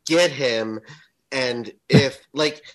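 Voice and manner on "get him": mock yell of get him at the TV; loud cheer; retold scream. Mom yelling at the game, mock yell. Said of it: "she would scream".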